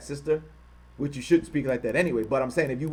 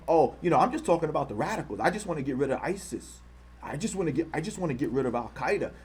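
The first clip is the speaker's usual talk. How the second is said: mocking impression. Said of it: "He's not saying".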